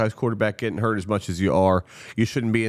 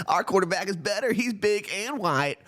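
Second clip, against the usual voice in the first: mocking smug fans; 11 semitones higher than usual. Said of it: "looking over at us in Baltimore and saying".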